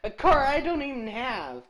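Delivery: can't believe what the game just handed him; shocked disbelief. Real, not acted. Streamer to co-host about a car he doesn't own, shocked disbelief. Gets a part for an unowned car.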